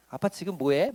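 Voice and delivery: lightly imitated lisping child, softly; a hint of a little one wheedling dad; cutesy child. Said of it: "혀 짧게 막 귀여운 척하고 막 애교를". (혀 짧은 아이의 애교를 살짝 흉내)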